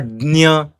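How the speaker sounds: Dnya with d into ny; Dnya, d-n-y cluster; rejected pronunciation. Shown as a demonstration. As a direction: say Dnya, d before the nasal.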